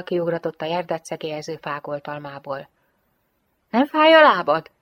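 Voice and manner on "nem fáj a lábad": higher, louder searching question; probing question. A narrator's reading. Gianetto asking Jane about her hurt leg, probing. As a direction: feel her out, pitch raised. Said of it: "puhatolózott Gianetto".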